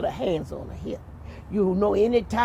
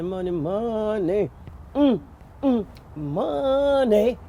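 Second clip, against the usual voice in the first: savoring; slower than usual. A narrator's reading. Savoring the king's wealth.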